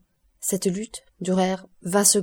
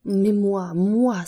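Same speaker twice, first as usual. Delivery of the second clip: anguished cry; 4 dB louder, much slower than usual. Acted. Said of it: "s'écria Morrel en hurlant de douleur".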